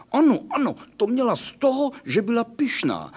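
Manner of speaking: high, loud, triumphant puppy chime-in; gleeful agreement. Acted. The doggy loudly agrees the proud nightgown deserved it. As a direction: crow it like a child who's been proven right.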